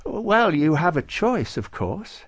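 a touch of measured saintly patience; lightly voiced saint, explaining. Nicholas telling Klaus he has a choice, explaining.

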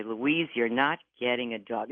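lightly imitated Boston-accented mother; mother's refusal in a Boston accent. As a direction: put on a mild Boston accent. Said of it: "In her Boston accent".

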